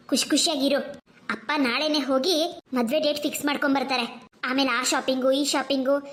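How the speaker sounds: a hint of a caring mother; gentle mother. Mother comforts and plans.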